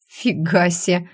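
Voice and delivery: slow, taken-aback exclamation; choked surprise. Acted. Heroine taken aback by Alisa's honesty, slow surprise. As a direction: caught off guard, drawn out. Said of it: "аж поперхнулась я".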